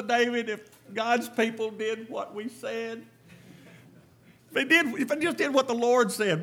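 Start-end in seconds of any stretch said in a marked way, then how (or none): 4.5-6.4 preaching fervour. Real, not acted. Preacher exhorts congregation.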